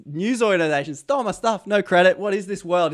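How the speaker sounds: worked-up rant. Real, not acted. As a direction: pitch climbing in indignation. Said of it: "I'm getting too emotional about this".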